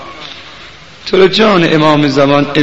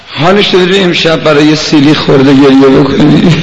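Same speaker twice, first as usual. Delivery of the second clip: impassioned mourning appeal; 4 dB louder than usual. Real, not acted. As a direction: urge mourners towards tears. Preacher's emotional appeal before lament.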